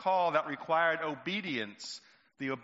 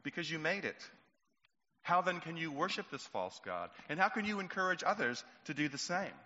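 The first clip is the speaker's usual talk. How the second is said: sad; 3 semitones higher, 3 dB quieter than usual. Acted. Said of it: "with very sad eyes".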